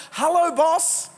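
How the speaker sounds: butter up the boss; fake cheerful. Worker answers the boss's call with fake cheer.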